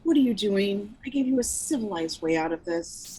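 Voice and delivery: controlled, deadly calm boss. Acted. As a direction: keep it cool and measured. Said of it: "She's deadly calm".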